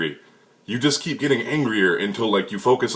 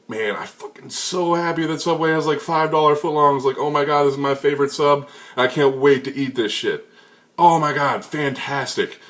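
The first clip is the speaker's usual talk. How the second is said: higher, gushing over a cheap sandwich; giddy delight; 5 semitones higher than usual. Retold or imitated. Hyping himself up over a five dollar sub, giddy and high. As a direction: gush like the best thing ever happened. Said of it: "when you go".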